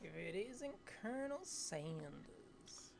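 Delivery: slow awed whisper. Acted. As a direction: breathe it out in awe.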